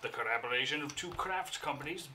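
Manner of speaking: reading out a label in a showy voice; label read aloud. Acted. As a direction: read it like a grand announcement. Reads the beer label aloud.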